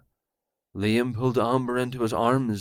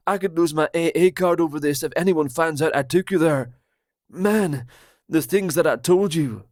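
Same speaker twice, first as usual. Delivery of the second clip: higher, louder, fast conspiracy rant; paranoid Roger; 4 semitones higher, 3 dB louder than usual. Acted. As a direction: blurt it out like a betrayed friend.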